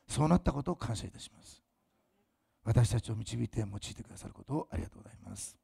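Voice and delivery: hushed thanksgiving prayer; closing prayer. Acted.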